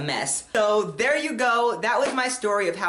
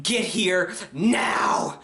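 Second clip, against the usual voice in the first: slow urgent demand; 2 semitones lower, much slower than usual. Retold or imitated. Urgent phone call to mom.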